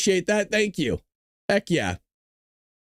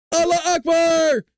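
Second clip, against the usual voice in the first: higher, louder, slow cheer, hammed-up; mock excited shout; 10 semitones higher, 4 dB louder, slower than usual. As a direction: shout it out giddy over the walkie-talkies. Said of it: "They get all excited".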